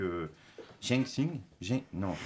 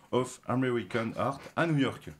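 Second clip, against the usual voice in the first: American English, said the French way; English accent attempt; 2 semitones higher, 3 dB louder than usual. Real, not acted. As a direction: attempt the museum name in American English, a little proud. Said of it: "Désolé de mon accent anglais". (nom du musée en anglais, accent anglais appliqué)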